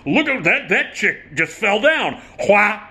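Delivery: high, slow gawking at a pratfall; mock gleeful. Old comic gawking at a fallen actress, gleeful. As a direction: point and gloat at the crowd. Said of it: "breaking character and going".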